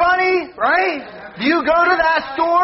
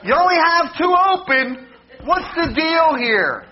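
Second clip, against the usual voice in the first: mock shouting; 3 semitones higher than usual. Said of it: "then I just start shouting stuff like".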